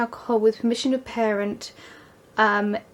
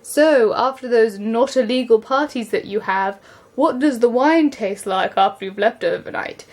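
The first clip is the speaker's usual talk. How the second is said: louder, leading question to a class; imitating a talk leader; 5 dB louder than usual. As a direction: put on a presenter addressing teenagers. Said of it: "the guy who was doing the talk".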